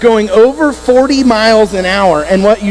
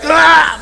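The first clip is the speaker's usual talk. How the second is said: short, higher-pitched cry of pain; mock pained cry; 5 semitones higher than usual. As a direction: yelp as the cramp hits, acted. Acting out legs seizing up.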